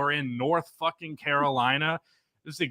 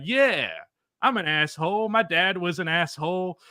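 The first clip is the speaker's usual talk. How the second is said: a Boston-ish proud jab, higher; hint of a Boston tough guy owning it; mock Boston belligerent; 6 semitones higher than usual. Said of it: "Commit to the accent".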